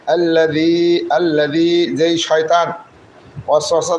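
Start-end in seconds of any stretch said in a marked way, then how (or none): 0.1-2.0 slow আল্লাযী with tongue lightly between the teeth. Shown as a demonstration. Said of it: "দুই দাঁতের মাঝখানে জিহ্বাটাকে হালকা চেপে ধরে".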